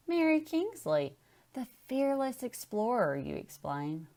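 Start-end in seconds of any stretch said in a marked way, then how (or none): 0.1-3.2 higher, eager explaining voice; enthusiastic teacher. Acted. Teacher tells the girl about the explorer, eager. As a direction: sell the explorer to a curious kid.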